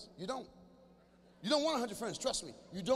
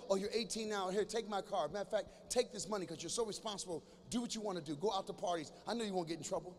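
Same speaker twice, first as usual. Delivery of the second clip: imagined indulgent mother; 2 semitones lower, 5 dB quieter than usual. Pretend. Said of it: "You want her to go like this".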